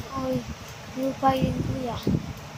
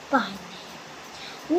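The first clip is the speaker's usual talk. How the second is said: whisper; 3 semitones lower, 7 dB quieter, slower than usual. Pretend. Hiding in pretend game.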